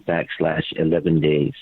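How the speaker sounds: slow, careful, word by word; deliberate dictation pace; dictating a web address. Real, not acted. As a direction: spell the address out slowly for listeners.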